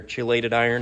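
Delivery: "chelated" said with a ch, CHEE-lay-tid; ch pronunciation. Shown as a demonstration. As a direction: start "chelated" with ch, as in cheese. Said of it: "however you wanna pronounce it".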